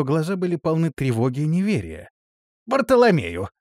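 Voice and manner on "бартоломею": hiding a tremor. A narrator's reading. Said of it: "стараясь скрыть дрожь в голосе".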